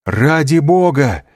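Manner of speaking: desperate loud appeal; cry out. A narrator's reading. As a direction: shout for mercy. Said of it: "вскричал Дантес".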